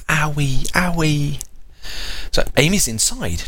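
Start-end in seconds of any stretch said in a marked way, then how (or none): 0.1-0.7 higher babyish owie, voiced; baby voice calling for her sister; baby talk. Baby saying sister's name. 0.7-1.4 put-on owie whispered in a babyish voice; baby whispering her sister's name; whispered baby talk.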